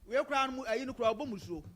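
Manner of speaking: emphatic, loud. Real, not acted. Guest insists loudly on his point to the moderator. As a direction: hammer the point so no one cuts in.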